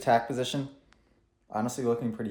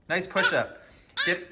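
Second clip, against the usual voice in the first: high-pitched playful encouragement; playful coaching; 9 semitones higher than usual. Real, not acted. Parent coaching Millie's push-up, high playful voice. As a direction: coax a little one in a high voice.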